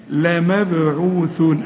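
لمبعوثون with the ba echoing; slow لمبعوثون, bouncing the ba; slow tajweed demo; bouncing qalqala. Shown as a demonstration. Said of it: "لازم نقلقلها".

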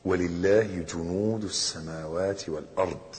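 low, softened Quranic quotation; verse recitation. Acted. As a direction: recite the verse with measured reverence. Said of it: "قال تعالى".

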